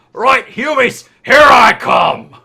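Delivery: shrill, booming, very loud, high orc yell. A player speaking as their orc character, orc yelling down a hallway. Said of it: "I'm gonna yell down the hallway".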